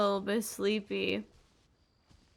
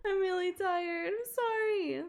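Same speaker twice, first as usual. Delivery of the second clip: higher giggly apology through laughter; tired giggling; 9 semitones higher, slower than usual. Real, not acted. Streamer apologizing to chat for ending early, giggling tiredly. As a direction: laugh it off, sleepy and sheepish. I need to go to bed.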